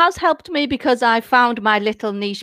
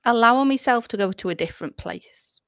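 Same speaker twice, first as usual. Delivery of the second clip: 1 whisper; 5 semitones lower, 5 dB quieter than usual. Shown as a demonstration. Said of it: "just stop and breathe".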